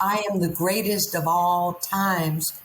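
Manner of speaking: slow, drawn-out champion's boast; boxer's slow boast. Retold or imitated. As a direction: lean into the brag slowly like a champ. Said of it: "there's this man on T V".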